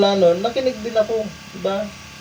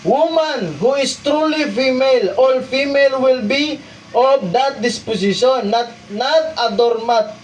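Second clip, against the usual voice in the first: reads the highlighted English passage aloud; preacher reading scripture notes aloud; 5 semitones higher than usual. Shown as a demonstration. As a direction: read the quoted text out to the congregation. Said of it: "Sabi niya dito".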